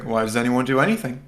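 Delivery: dismissive, as if looking away. Acted. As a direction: brush the question off, uninterested. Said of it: "sort of dismissively looking away, going".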